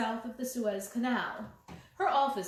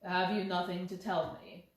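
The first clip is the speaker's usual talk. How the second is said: calm insistent Holmes; 4 semitones lower than usual. Acted. Holmes questions lady.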